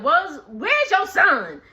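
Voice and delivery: drawn-out, slow mock demand; rude demand. Brooke walking in on J K's mom, demanding. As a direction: mimic a guest skipping the greeting. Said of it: "no greeting or nothing".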